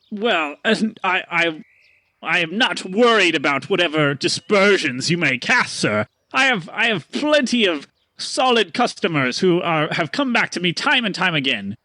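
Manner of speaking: a hint of a lofty salesman; haughty merchant. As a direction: sniff off the insult. Merchant defends his shop.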